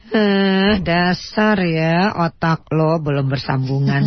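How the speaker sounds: calming self-talk. Pretend. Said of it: "bilang pada diri Ibu sendiri".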